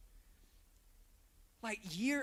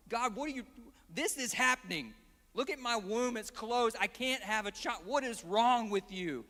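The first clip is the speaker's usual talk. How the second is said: exasperated complaint to God; 3 semitones higher, 4 dB louder than usual. Retold or imitated. Imagined complaint Hannah does not make.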